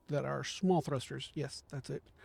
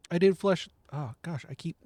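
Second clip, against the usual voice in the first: tongue sticking; 5 dB louder than usual. Real, not acted. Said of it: "My tongue keeps getting stuck to the roof of my mouth".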